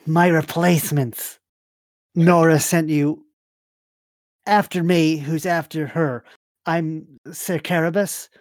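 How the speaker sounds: lightly voiced, laboured introduction from bed; Sir Carabas. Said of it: "push themselves up in the bed and go".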